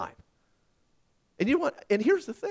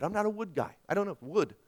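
ordinary delivery

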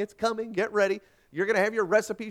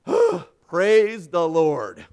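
big exhale, then loud slow words; relieved, very drawn-out exclamation; huge relief; 9 dB louder, much slower than usual. A narrator's reading. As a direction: sigh it out after a narrow escape. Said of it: "brushed the sweat from his brow".

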